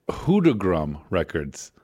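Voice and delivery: Hundergramm Records with German accent. Real, not acted. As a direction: says Hundergramm like a German word. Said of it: "I always say it in a German accent".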